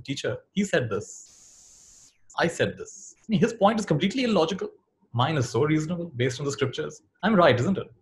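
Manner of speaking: student pressing his case, rising high on his own points; eager student. Acted. Student argues to the teacher he is right, eager pleading. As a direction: sell your side to the teacher, sure you're right.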